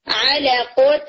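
علقتف slow, the nasal pressed into the f; ikhfa demo. Shown as a demonstration. Teacher repeating the ikhfa example, slow nasal. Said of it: "صرف اس کو تھوڑا دبا دینا ہے".

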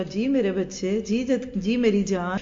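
put-on slow, tender reply to a child; mother answering her child with affection, slowly; loving answer. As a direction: melt as you answer your child. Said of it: "اور پیار سے بولے".

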